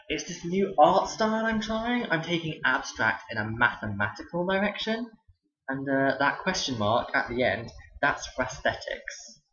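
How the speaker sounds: deadpan a ridiculous excuse to a pupil; teacher fakes an art pitch, dripping sarcasm; sarcastic.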